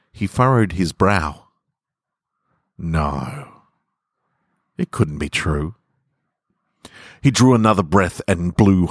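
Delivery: calm, unhurried literary reading; story narration. A narrator's reading. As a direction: let each image settle as you read. Reads story to podcast listeners.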